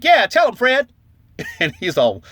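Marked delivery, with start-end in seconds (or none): 0.0-0.9 egging on. Retold or imitated. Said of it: "And I'm like".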